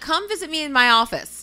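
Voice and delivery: imitating Leah. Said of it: "she's like".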